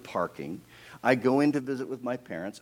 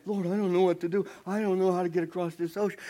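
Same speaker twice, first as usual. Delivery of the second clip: higher, louder acted cry to God; helpless plea; 6 semitones higher, 5 dB louder, faster than usual. Moses to the Lord about the ocean, pleading. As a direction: wail it mildly, at a loss.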